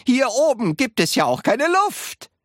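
high, lively exclaimed explanation; calling out. A narrator's reading. Wonka explaining the lack of air, calling out. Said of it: "rief Mister Wonka".

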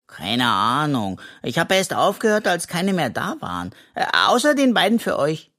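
lightly voiced cheeky raccoon, easy and carefree; a hint of a greedy little raccoon, unbothered; raccoon Henry. (Waschbär Henry, leicht verstellt und unbekümmert)

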